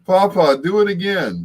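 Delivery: put-on high, eager child's plea; imitating granddaughter. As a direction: pipe up high like a little granddaughter. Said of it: "She's like".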